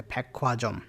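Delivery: फैक्वाजम with a breathy aspirated kh; aspirated pronunciation. Shown as a demonstration. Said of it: "aspirated हो जाता है". (फैक्वाजम को हवा के साथ एस्पिरेटेड बोलिए)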